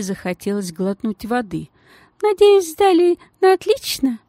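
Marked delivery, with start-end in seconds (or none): 2.2-4.2 much higher, sugary lady's voice; gushing society lady in a tiny high voice; thin high voice. Acted. The lady asks sweetly.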